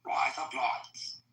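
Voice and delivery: very slow, near-whispered repeat of rise up lights; slow careful whisper. Shown as a demonstration. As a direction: say it slowly and carefully. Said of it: "Go ahead, say it".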